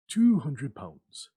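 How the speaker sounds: slow and heavy. Acted.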